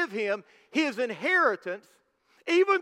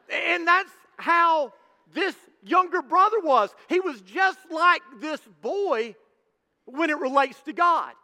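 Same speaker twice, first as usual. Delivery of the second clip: preaching shout; 4 semitones higher than usual. Real, not acted. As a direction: hammer the point home to the congregation. Preacher drives home the point.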